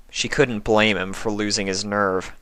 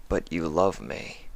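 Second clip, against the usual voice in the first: changeling's plea; 2 semitones lower, 8 dB quieter than usual. Acted. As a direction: state it as plain fact, quietly. Sympathy voiced low.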